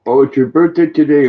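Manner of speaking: light up at the news; excited. Real, not acted. Greeting a friend on her birthday, excited.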